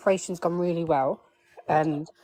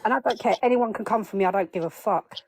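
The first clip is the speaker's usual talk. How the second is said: imitating son; 3 semitones higher than usual. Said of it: "hear him".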